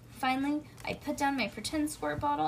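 ordinary delivery, nothing marked

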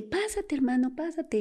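high, eager call to come in; eager invitation. Retold or imitated. Woman inviting her brother in, eager and high. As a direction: urge your brother inside, pitch way up. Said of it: "Y dije".

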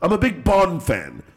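put-on slow hammy English accent; bad English accent. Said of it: "the English accent".

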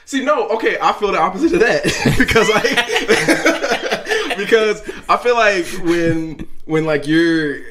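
talking through laughter; giggling mid-sentence; laughing. Real, not acted. Guest laughs while disagreeing.

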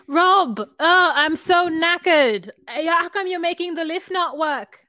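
loud, slow mock British accent; a hammed-up London accent; British accent attempt. Mocking the show couple, in a loud British accent. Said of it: "It's the wrong accent".

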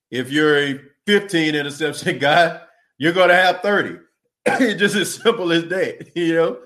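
real laughter spilling through the words; chuckling, amused at the obvious math; laughing. Real, not acted. Laughing at his own point.

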